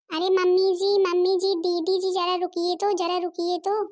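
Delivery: daughter-in-law loudly calling mother-in-law to wait; calling after her. Acted. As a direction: call out so she halts.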